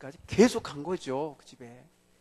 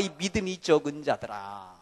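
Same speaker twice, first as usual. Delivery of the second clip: mild rebuke; 3 semitones lower, 5 dB quieter than usual. Retold or imitated. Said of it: "꾸지람을 당하는 거야".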